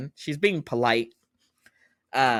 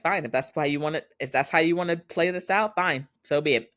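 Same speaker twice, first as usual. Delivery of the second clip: higher-pitched, huffy retold defiance; defiant acceptance; 6 semitones higher than usual. Daughter told not to return, defiant. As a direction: act out giving up in a huff. Daughter defies dad in quarrel.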